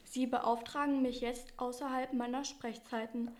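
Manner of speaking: flat, curt robot voice; cheeky AI assistant clocking off. Acted.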